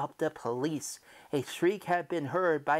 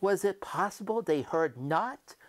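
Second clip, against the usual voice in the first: louder and higher, building to a near shout; frantic rising rant; 5 semitones higher, 10 dB louder than usual. A narrator's reading. Guilty narrator losing control before the police, building shout. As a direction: let the panic swell line by line. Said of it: "in a high key".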